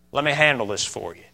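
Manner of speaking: soft reassuring offer; hushed, calming voice; quiet and calm. Acted. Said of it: "very quietly and very calmly".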